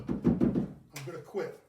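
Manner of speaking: slow whispered give-in; sheepish whisper. Real, not acted. Told off by his wife for pounding the counter, whispering back. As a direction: whisper it like you got caught. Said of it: "says for me to quit pounding".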